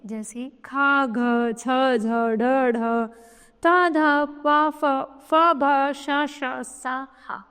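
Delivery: खा, घ, छ, झ, धा, भा said slowly with a strong puff of air; aspirated letters sounded out. Shown as a demonstration. Teacher demonstrating breathy letters for children, slow and aspirated. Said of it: "मुख से अधिक वायु मात्रा में वायु निकलती है".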